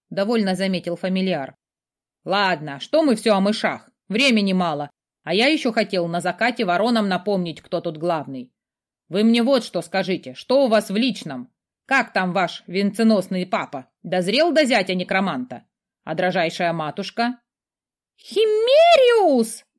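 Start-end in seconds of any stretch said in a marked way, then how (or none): 2.2-17.4 cheeky skull familiar. Acted. 18.2-19.7 long, high, very loud shout. Acted. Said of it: "От крика принцессы зазвенели пробирки".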